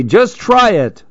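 high, sing-song imitation of dad; mimicking dad. Lil mimicking her dad's advice, sing-song mock. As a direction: parrot the dad's stock line. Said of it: "what my dad's gonna say".

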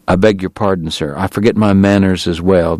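gentle, apologetic and soothing; smooth it over kindly; a hint of consolation; consolatory tone. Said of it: "Doc said in a consolatory tone".

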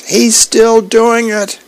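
high, slow and drawn-out tattling cry; whiny child shouting to Mom; childish yell. Acted. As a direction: call it out like a kid telling on her brother. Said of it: "Zoe yells".

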